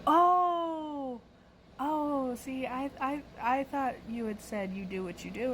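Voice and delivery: high, drawn-out oh, then hesitant explaining; retold sheepish surprise; dawning realisation. Customer realising mishearing, retold.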